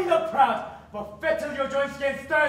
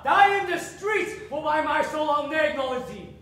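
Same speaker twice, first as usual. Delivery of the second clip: angry disowning; 2 semitones higher than usual. Acted. Father disowns his daughter.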